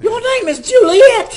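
high, loud astonished cry; dramatic shock. Pretend. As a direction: act stunned and amazed.

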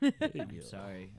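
slow, sweet cartoon princess; sing-song princess apology; Disney princess voice. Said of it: "I have a Disney princess voice sometimes".

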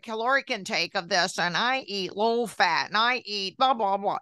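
mock defensive rant, a bit fast. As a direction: rattle off your excuses defensively. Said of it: "I got so defensive".

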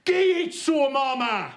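high, loud Black Country shout of the phrase; Black Country call. Shown as a demonstration. Comic teaching the crowd a Black Country phrase, loud high call. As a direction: belt it out in broad Black Country. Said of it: "Repeat after me".

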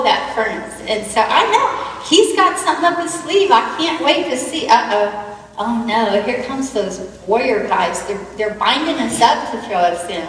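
lightly voiced Meshach, excited, then awed; a hint of Meshach marvelling at the rescue; Meshach in the furnace. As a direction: retell the furnace as Meshach living it, lively and amazed. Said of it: "what it might have been like for Meshach".

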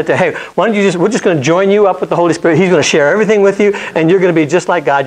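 mock-generous sales pitch; breezy pretend God. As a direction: rattle off the easy deal with gusto. Imagined God offering easy gifts.

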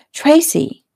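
high, falling call of a name; exasperated interruption. A narrator's reading. Fiancé stops fiancée's coaxing on the phone, exasperated. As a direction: cut in to stop her.

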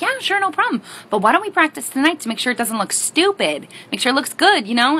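put-on high, eager kid offering help. Kid offering mom a practice run, high and eager. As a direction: pitch it up, keen to practice. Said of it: "And I was like".

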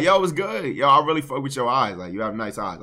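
smooth, calm pickup line. Shown as a demonstration. Coach modelling a compliment for his friend, smooth and calm. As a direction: deliver it easy and relaxed. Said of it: "Just smooth, just calm".

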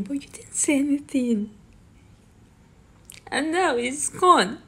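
high, rising to a loud outcry; angry accusation. Real, not acted. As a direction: build from bitter to furious. Bitter accusation at relatives.

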